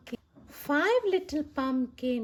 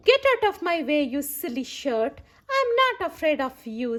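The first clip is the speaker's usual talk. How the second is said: put-on bold old lady; 2 semitones higher, faster than usual. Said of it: "said the little old lady".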